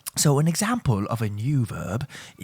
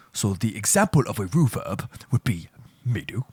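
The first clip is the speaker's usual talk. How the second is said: whisper. Real, not acted. Lesson line said unvoiced.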